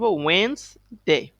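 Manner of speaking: ওয়েডনেসডে as two drawn-out parts, "Wens... day"; careful pronunciation. Shown as a demonstration. Teacher modelling the word for pupils, ওয়েডনেসডে said "wens... day". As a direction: pronounce ওয়েডনেসডে without the first d, pausing before "day". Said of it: "উচ্চারণ করব".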